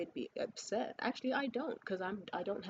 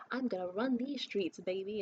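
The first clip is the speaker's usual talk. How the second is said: hammed-up eager strutting, pitched up; mock white women; 2 semitones higher, 4 dB louder than usual. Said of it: "white women out in the streets today just like".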